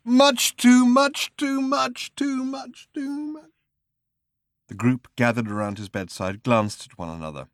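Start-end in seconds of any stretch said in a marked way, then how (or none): 0.0-3.5 high slow moan, getting softer each time; moaning, fading away. Acted. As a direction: moan it out until it dies away. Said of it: "moaning quietly".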